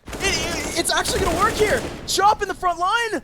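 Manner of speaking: high, loud hype call; excited shout. Real, not acted. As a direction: scream the play as it lands. Hype moment in match.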